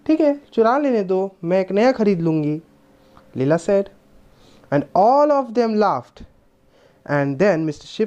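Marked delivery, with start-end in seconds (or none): 0.1-2.6 put-on carefree child. Leela tells the inspector she'll buy a chain, carefree child. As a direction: wave it away like a child.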